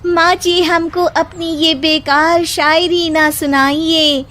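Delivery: daughter-in-law firing back a couplet at her mother-in-law; daughter-in-law's couplet. Acted. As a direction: answer in verse with a triumphant flourish. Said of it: "उसी की भाषा में जवाब".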